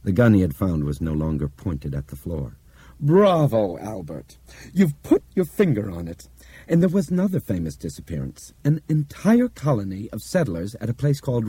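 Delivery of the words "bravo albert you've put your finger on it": high, emphatic approval; hearty praise. Acted. Bob congratulates Albert on his deduction, hearty praise. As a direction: applaud with swooping, punched words.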